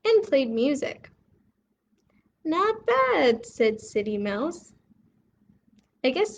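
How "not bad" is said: high, louder grudging praise; a hint of surprise that it's fun; high impressed not bad; pleased surprise. City mouse enjoys jamboree.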